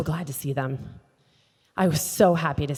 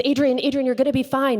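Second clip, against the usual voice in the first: imitating an anxious pep talk, higher-pitched; urgent reassurance; 7 semitones higher, faster than usual. Dance partner to sobbing woman backstage, urgent mock reassurance. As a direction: hurriedly soothe someone, voice lifted high.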